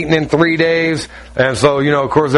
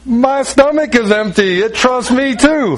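imitated hungry husband; 8 semitones higher than usual. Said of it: "And he goes".

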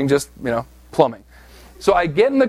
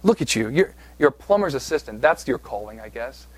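taunting enemy voice; 3 semitones lower than usual. Retold or imitated. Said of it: "hearing the voice of our enemy saying".

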